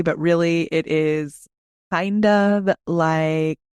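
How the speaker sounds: low, slow, creaky radio voice; vocal fry. Shown as a demonstration. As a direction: slide into a lazy vocal fry. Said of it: "it's very much like this".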